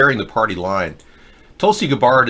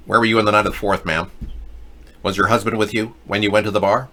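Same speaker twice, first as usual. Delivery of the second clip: tough cop; faster than usual. Pretend. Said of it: "It's more like Dragnet".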